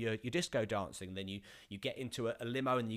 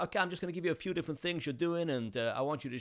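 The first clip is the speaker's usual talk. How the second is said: put-on light Dutch-accented director voice; a hint of a brisk Dutch director; 5 semitones higher, faster than usual. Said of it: "I think he was Dutch-ish".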